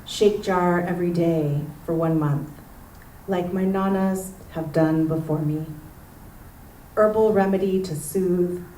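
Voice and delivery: measured poem delivery, pausing between phrases; poetry reading. Acted. Local poet reading a neighborhood poem to an audience, poetry reading. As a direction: read it as a poem, weighing each image. Reads own poem aloud.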